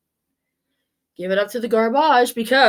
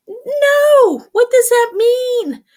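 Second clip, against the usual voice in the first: high, loud puzzled outburst; baffled shopper asking what it means; mock bewildered; 12 semitones higher, 5 dB louder, much slower than usual. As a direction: throw up your hands in confusion. Mock confusion.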